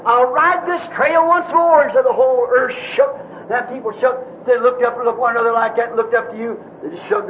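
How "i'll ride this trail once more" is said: raised, higher-pitched proclamation; retold scream. Preacher retells the rider screaming over scientists, high mock cry. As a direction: imitate a cry from the mountaintop, drawn out. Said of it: "raised up your hands again and screamed".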